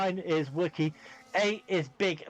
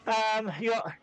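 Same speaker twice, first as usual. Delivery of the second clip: out of breath; 3 semitones higher than usual. Real, not acted. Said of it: "I'm really panting".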